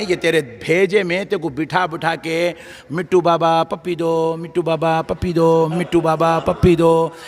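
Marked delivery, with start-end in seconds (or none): 2.9-7.2 parrot mimicry. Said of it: "जैसा तोते को बोलते".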